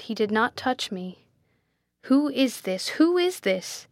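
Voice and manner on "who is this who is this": high, insistent questioning; agitated, higher-pitched demand; urgent demand. A narrator's reading. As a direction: demand it, pitch climbing on the repeat. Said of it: "he demanded".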